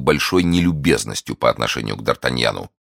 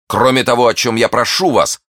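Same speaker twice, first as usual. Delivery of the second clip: high, loud, urgent begging; ardent plea; 9 semitones higher, 6 dB louder than usual. Acted. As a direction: press the plea with passion. Suitor begs the lady's favour. (пылкая, настойчивая мольба)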